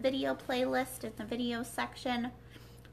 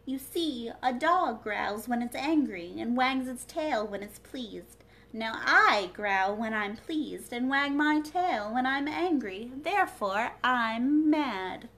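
louder, slyly reasoning Cat; Cheshire Cat voice; 5 dB louder than usual. Acted. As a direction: lay out the logic like a sly riddle. Cat explains its logic.

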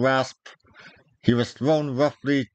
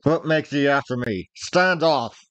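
warning shout; 3 semitones higher than usual. Acted. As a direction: drive him back with your voice. Dick warns off his follower.

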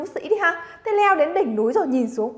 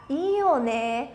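slow, admiring and drawn out; with feeling; slower than usual. Shown as a demonstration. Teacher modelling an emotional reading for students, slow and lingering. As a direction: let the words linger over the view. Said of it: "học theo cái cảm xúc đây của mình".

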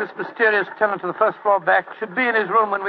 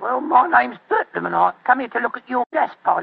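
weak Cockney; 4 semitones higher than usual. Acted. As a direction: bluff in Cockney. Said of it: "My Cockney accent".

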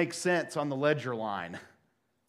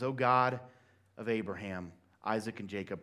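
simple prayer; 6 semitones lower, 5 dB quieter than usual. Retold or imitated. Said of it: "offers this simple prayer to God".

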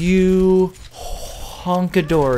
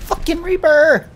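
higher, louder furious curse; angry yell; 10 semitones higher, 5 dB louder than usual. Real, not acted. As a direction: spit it out in anger. Angry at enemy player.

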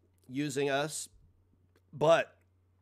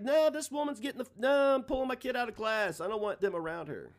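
insist, pitched up, calming on the last line; indignant parent; 9 semitones higher than usual. Retold or imitated. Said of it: "and be like".

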